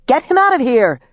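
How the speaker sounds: high, loud urgent yell; desperate shouted command. A narrator's reading. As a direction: yell the order at Quen. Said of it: "I yelled".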